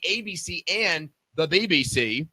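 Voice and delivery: mock British accent on the channel name; put-on British accent. Host reading guest's TV credits, in a mock British accent. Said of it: "that's my accent, by the way".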